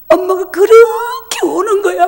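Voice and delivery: tearful, rising with a sob; choked up. Real, not acted. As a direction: voice breaking into tears. Crying mother recalled, voice breaks. (울먹이며 목이 메어)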